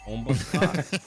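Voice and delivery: Bombaclot slow and drawn out, Jamaican style; Jamaican accent. Shown as a demonstration. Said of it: "that's how the Jamaicans say it".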